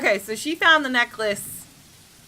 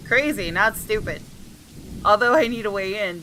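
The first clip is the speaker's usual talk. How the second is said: story narration; 2 semitones lower than usual. A narrator's reading. Reads game text aloud.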